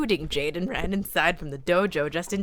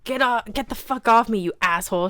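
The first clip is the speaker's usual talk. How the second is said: loud struggling yell; scream; 4 semitones higher, 5 dB louder than usual. A narrator's reading. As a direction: fight free while yelling. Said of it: "she screamed".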